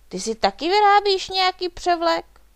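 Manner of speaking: high, loud eager question; bright-eyed wondering, pitched well up; curious. A narrator's reading. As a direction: ask with keen, excited curiosity. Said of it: "optal se zvědavě Špuntík".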